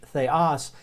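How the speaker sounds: Theos said slowly, THAY-ahs; slow Greek word. Shown as a demonstration. Teacher to class, sounding Theos out slowly. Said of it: "that you need to associate".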